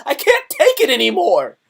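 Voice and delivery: high, loud wail of giving up; mock despair. Screenshotting the deleted tweet, high loud mock wail. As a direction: cry out like you've had enough. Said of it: "I went".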